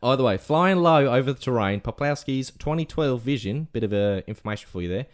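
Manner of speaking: story read in put-on Aussie; Australian accent. Telling the lost-dog story on request, Australian accent. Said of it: "whole rest of the segment in Australian accent".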